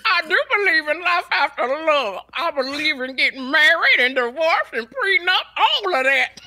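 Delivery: Retold or imitated: a singer. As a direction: answer as the singer, over the top. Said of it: "ask the singer".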